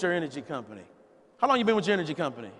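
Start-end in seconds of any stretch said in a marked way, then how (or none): 1.4-2.5 rattled off quickly; fast question. Shown as a demonstration. Coach repeats the prospect question at speed. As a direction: rush through the question in one breath.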